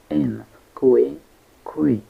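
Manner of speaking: "in", "kui" sounded out separately; syllable by syllable. Shown as a demonstration. Teacher breaking inquisitive into four syllables, syllable by syllable. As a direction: say "in, kui, kui" as isolated syllables with pauses. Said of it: "Inquisitive has four syllables".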